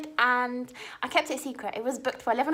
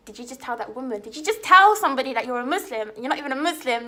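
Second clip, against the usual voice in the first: loud disbelieving questions; shocked, scolding herself out loud; incredulous outburst; 6 dB louder, faster than usual. Retold or imitated. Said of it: "in my head I'm thinking".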